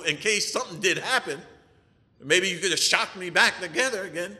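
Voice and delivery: comic exasperation, pushed a little; indignant protest. Retold or imitated. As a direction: protest as if the doctor missed the obvious. Acts out his protest to the doctor.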